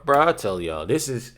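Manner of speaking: talking through hiccups. Real, not acted. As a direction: speak with hiccups catching the breath. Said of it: "I got the hiccups".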